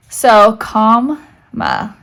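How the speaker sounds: comma said slowly with COM stressed. Shown as a demonstration. Teacher slowly sounding out comma's accent. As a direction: stretch comma out and lean on COM. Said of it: "mark all diacritics applicable, including the accent".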